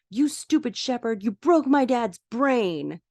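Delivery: put-on high, slow, accusing kid voice; a small boy blaming the surgeon; angry little boy. Podcaster voices the boy blaming the surgeon, high and slow.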